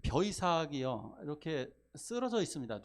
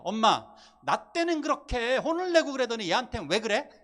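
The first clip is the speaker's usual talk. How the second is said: put-on loud, higher, indignant older child; child's complaint; 8 semitones higher, 11 dB louder than usual. Older child complaining to mom about the younger one, loud. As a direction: protest to mom that it's unfair. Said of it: "큰아이가 이렇게 얘기합니다".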